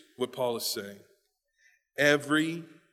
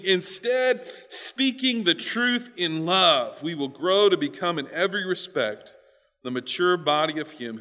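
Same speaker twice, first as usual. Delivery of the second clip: scripture reading; 3 semitones higher, 4 dB louder than usual. Real, not acted. Reads scripture aloud to congregation.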